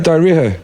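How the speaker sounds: DIARRHEA ending in "-ha"; H sounded inside. Shown as a demonstration. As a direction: say "diarrhea" as "die-ree-ha". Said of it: "That's how I'd say it".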